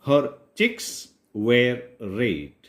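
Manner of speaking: slow, careful English read-aloud; slow story reading. Shown as a demonstration. Teacher reading a story line to Gujarati learners, slow and clear.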